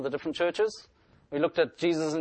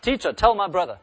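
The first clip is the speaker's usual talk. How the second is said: crying out; 4 semitones higher, 6 dB louder than usual. Retold or imitated. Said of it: "this guy also cries out".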